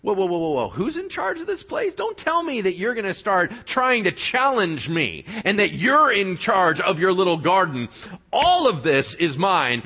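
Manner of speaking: mock outrage, building to a claim; hammed-up offended devil; indignant Satan. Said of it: "And Satan's like".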